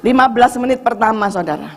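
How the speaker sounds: ordinary talk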